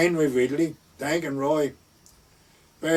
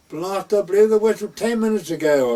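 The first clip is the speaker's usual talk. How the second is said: retold angry outburst; 6 semitones higher, 4 dB louder than usual. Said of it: "I'm sorry for my outburst".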